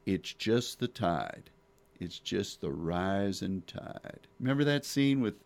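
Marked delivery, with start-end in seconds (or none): 0.0-4.3 slow, low, drawn-out quoting the sheriff; a light slow Texan sheriff line; movie quote. Retold or imitated. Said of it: "as No Country for Old Men said".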